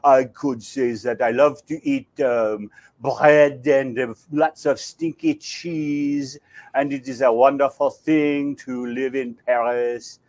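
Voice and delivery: a hint of a Parisian French accent. Shown as a demonstration. Actor demos a French accent for the host, light French accent. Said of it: "if I wanted to say that I was from Paris".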